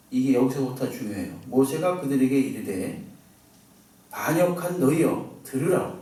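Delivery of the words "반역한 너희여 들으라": mild agitated rebuke. Retold or imitated. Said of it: "굉장히 격앙된 어조로 막 말을 하는".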